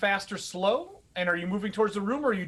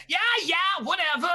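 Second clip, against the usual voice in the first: dismissive; 9 semitones higher than usual. Acted. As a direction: wave him away mid-sentence. Slish cuts Blythe off dismissively.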